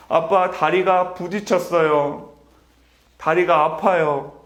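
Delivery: slow, mildly whiny little son's plea; a touch of a sobbing toddler, not real tears; imitating crying child. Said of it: "엄청 서럽게 울면서 이렇게 말합니다".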